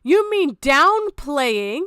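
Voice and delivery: loud, slowed, incredulous repeat; mocking disbelief. Real, not acted. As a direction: throw her word back at her, drawn out. Mocking the clip's word choice.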